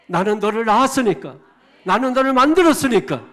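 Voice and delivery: loud, rising declaration; God's proclamation. Acted. 창조주가 자녀에게 선포하듯 크고 높게. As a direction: claim your child with authority. Voicing God as parent.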